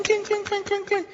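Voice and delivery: very high, sharp ringing clinks; ping out each clink like a coin hitting the floor; high-pitched imitated coin clinks. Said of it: "cuando caen las monedas hacen clink".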